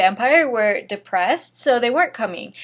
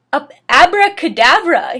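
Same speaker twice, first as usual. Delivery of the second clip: loud spell-casting yell; 5 semitones higher, 8 dB louder than usual. Acted. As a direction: hurl the spell at them. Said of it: "yelled at Snape and Lupin".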